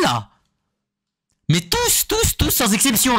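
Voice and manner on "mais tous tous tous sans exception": high, slow, stretched-out disbelief; excited outcry. Real, not acted. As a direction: cry it out, outraged and amazed. Fan outraged at cartoon rivals.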